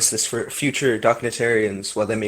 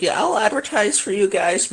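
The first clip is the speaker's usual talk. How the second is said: creepy reviewer voice; 8 semitones higher than usual. Retold or imitated. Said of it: "and was like".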